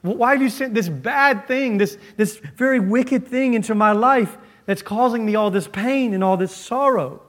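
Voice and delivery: high, pleading complaint to God; a hurt believer questioning God; complaining to God. Retold or imitated. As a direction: voice the sufferer's grievance. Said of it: "Suffering causes us to look to God and say".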